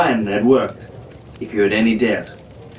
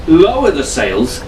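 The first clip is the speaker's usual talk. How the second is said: protesting; 7 semitones higher than usual. A narrator's reading. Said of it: "Fitzwilliam protested".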